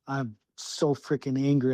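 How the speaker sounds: usual speaking voice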